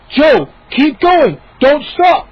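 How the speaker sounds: slow, loud, high plea; frantic cry. Acted. Moose pulling Joe's arm, crying out. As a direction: beg your friend not to stop. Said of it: "Moose cried".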